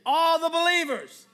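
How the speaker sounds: high, loud rallying call; full-voiced preacher leading the congregation; like you mean it. Shown as a demonstration. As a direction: belt it out with conviction. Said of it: "say it like you mean it".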